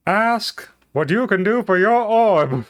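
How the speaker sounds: high, slow pompous oration; grand speech voice. Pretend. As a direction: draw it out like a statesman's climax. JFK parody speech, slowed.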